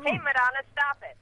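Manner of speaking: loud, high playful call-out; mock telling-off. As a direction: call out to the star in mock protest. Mock telling-off of absent star.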